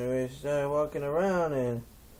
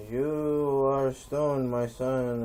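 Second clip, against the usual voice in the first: slow, louder wise-elder voice; slow solemn chief; 4 dB louder, much slower than usual. Retold or imitated. The chief tells the stoned narrator, solemn and slow. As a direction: intone it like a solemn old chief.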